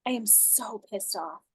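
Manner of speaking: seethe softly to yourself; understated acted venting; venting anger. Shown as a demonstration. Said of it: "And then I'll go".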